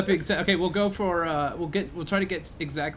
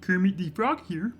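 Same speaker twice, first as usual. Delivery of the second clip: slow, higher puppet frog voice; Kermit the Frog voice; 5 semitones higher than usual. Retold or imitated. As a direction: croak it out like Kermit. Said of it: "Do your best Kermit the Frog impression".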